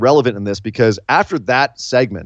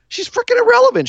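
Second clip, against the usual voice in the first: emphatic jab. Real, not acted. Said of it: "emphatic judgement".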